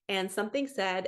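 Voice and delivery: normal talking voice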